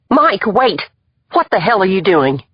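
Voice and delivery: high urgent call. Acted. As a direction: call after him, alarmed. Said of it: "Emily called behind me".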